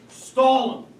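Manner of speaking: exasperated loud command. Acted. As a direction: stall 'em barked out loud and hard. Urging wife while she's on phone.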